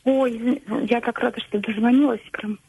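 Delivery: hoarse voice from a cold. Real, not acted. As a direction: speak with a hoarse, cold-worn throat. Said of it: "извините за мой хриплый голос, простужена".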